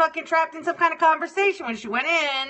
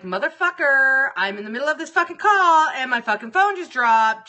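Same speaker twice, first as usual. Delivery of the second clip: a raised, frustrated curse at the dropped call; pissed-off rant; 4 dB louder than usual. Retold or imitated. Ranting to himself when the call drops, pissed off. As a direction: grumble it out loud, fed up. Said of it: "So now I'm pissed".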